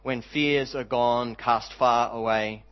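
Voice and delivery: measured line-by-line recitation, pausing after each phrase; spoken hymn, each line settling gently downward; hymn verse recital. Real, not acted. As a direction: recite it like a poem, unhurried and sincere.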